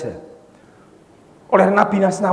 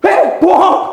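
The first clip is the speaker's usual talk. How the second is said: higher, louder heckling shout; accusing yell at the pulpit; wife heckling; 7 semitones higher, 6 dB louder, slower than usual. Acted. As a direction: call out from the pews. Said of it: "istrinya ngomong".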